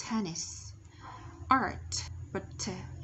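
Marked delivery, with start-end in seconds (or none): 0.1-0.6 "Tennis" ending on a clear S; final S sounded. Shown as a demonstration. Teacher repeats the word for learners, "Tennis" with sounded final S. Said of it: "S ending sound". 1.5-2.1 "Art" with a louder attack and released T; released final T. Shown as a demonstration. Teacher drilling ending sounds, "Art" with released final T. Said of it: "ending sound".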